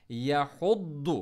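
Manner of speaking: यहुद्दु slow with a hard doubled द्द; stressed dwad. Shown as a demonstration. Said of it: "वाव के फ़ौरन बाद द्वात आ गया". (यहुद्दु में द्वात पर शद्दा)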